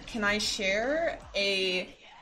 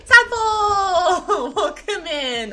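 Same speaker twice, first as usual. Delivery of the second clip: high, loud laughter into a drawn-out shout; laughing excited shout; 10 semitones higher, 11 dB louder, much slower than usual. Real, not acted. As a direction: shriek the name through laughter, stretching it out. Second raid arrives, delighted.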